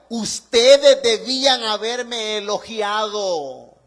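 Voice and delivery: slow, loud, stretched-out declaration; emphatic reproach. Retold or imitated. Paul telling the Corinthians they failed him, emphatic reproach. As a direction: preach Paul's complaint with drawn-out words.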